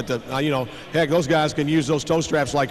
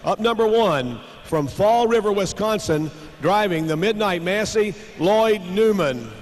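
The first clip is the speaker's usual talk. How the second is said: tractor pull announcer; 3 semitones higher, slower than usual. Acted.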